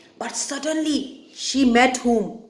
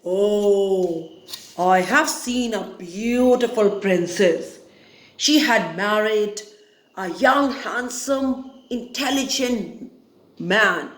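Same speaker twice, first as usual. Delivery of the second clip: croaking crow; 2 semitones lower than usual. Acted. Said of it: "he croaked and he said".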